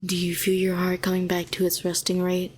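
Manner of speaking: calm, even, unhurried coaxing; soothing guidance. Acted. Helping a shaken hero find their pulse, soothing. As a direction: guide them gently back to steady breathing.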